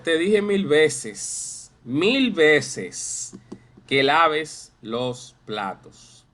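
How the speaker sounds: loud, slow exasperated scolding; drawn-out mock scolding about the dishes. Shown as a demonstration. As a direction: nag like a fed-up parent. Teacher voices scolding parent.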